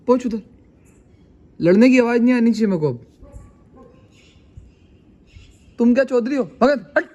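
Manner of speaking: real, mildly cross telling-off; scolding barking dogs. Real, not acted. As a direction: order the dogs to clear off. Shooing barking dogs away.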